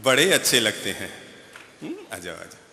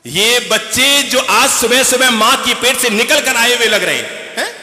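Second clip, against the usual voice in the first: loud, slow, higher sermon cadence; preaching; 8 semitones higher, 8 dB louder than usual. Acted. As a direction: hammer each point home slowly. Monk preaches after children answer.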